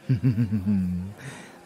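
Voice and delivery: rippling closed-mouth chuckle. Acted. Lover teasing a partner, rippling chuckle.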